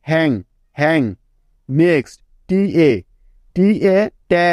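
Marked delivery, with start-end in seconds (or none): 4.3-4.5 "ট্যা" as t plus short open a; TA sound demo. Shown as a demonstration. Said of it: "হিসেবে উচ্চারিত হয়".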